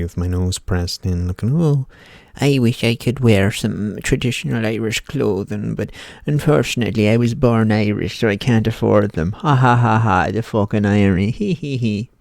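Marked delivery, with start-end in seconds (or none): 1.6-12.1 higher-pitched pining shop-window gazer with mock laughter; put-on wistful lament with fake giggles; wistful Charlie. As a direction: ham up a longing wish, then laugh at the irony. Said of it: "like fucking Charlie fucking from the Chocolate Factory".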